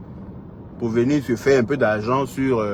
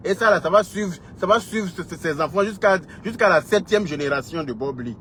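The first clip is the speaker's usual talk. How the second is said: high-pitched heated warning; scolding, voice pitched well up; indignant warning; 6 semitones higher than usual. Real, not acted. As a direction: warn them with rising indignation. Warning the shame will follow.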